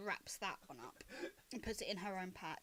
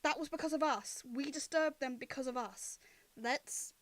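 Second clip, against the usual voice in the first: louder, slightly raised, firm reproach; scolding companion; 4 semitones higher, 5 dB louder than usual. Acted. Loma stops Winston disturbing the camp, firm scolding. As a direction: tell them off and appeal to their conscience.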